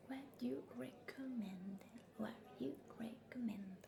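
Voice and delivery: "what you recommend" whispered slowly twice with a lean on "you"; slow whispered drill of "what you recommend". Shown as a demonstration. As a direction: repeat slowly for the learner to copy. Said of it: "Repítelo".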